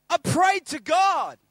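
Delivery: loud, slow proclamation; proud announcement. Retold or imitated. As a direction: announce it to the whole shop. Barber's big reveal to all.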